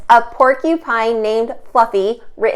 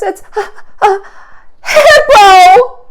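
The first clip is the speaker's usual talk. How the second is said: sheepish rhino; 11 semitones higher, 8 dB louder, slower than usual. Acted. Embarrassed rhino confessing name.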